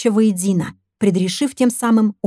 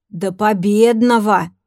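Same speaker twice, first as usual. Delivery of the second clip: odd smiling voice; slower than usual. Acted. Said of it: "своеобразно улыбаясь, сказал Данил".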